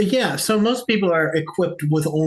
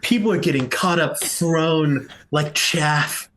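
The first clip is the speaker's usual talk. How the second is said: slow, deliberate dramatic narration; game master's scene setting. Acted. Game master describes the worm's rampage, slow dramatic narration. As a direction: draw out each image of the rampage.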